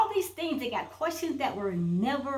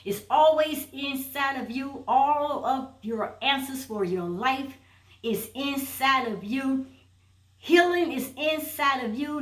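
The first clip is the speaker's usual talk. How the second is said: firm, emphatic preaching push; with power in her voice. Real, not acted. Coach urging listeners to heal, said with power. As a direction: drive each line home with conviction. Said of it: "I'm gonna say it with power in my voice".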